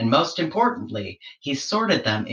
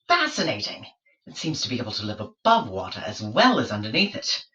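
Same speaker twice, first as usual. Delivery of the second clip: higher, fussy scientist voice; pompous explorer questioning; 3 semitones higher, faster than usual. Acted. George interrogating the platypus about its kind, fussy higher voice. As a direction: probe like a fussy naturalist, pitched up.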